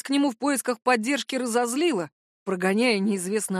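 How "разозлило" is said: ordinary delivery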